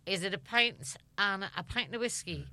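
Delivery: a light Liverpool lilt on the pub offer; casual Scouse, mates at the stage door; Scouse accent. Retold or imitated. Actress offers Barry Cryer a pint, light Scouse accent. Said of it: "in my Scouse accent".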